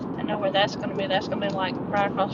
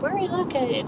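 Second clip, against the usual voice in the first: caller's question; 9 semitones higher than usual. Retold or imitated. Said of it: "the question".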